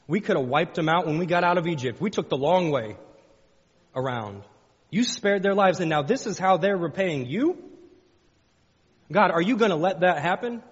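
loud, high, pleading cry to God; indignant pleading prayer. Acted. Preacher voicing Jehoshaphat's prayer, an indignant loud plea. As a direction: protest the injustice, voice rising.

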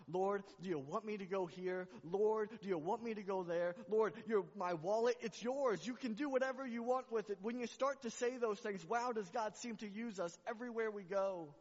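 high, loud, pleading prayer voice; fervent preaching. Acted. Preacher voicing a believer surrendering to God, fervent. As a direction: cry out to the Lord with full surrender.

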